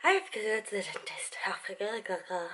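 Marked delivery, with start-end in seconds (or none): 1.4-2.5 breathy repeated whisper. Shown as a demonstration. Telling viewers about the dentist, whispered. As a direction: whisper it to yourself.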